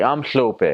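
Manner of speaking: mock a learner's spitty "hlope". Learner's try at Ndebele, high spitty "hlope". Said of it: "sounds like you got a lot of spit".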